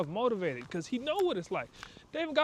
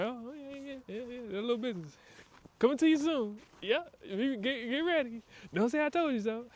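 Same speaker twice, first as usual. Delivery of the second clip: forced polite face; 5 semitones higher than usual. Retold or imitated. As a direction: smile it off in front of family. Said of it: "you gotta put on a face".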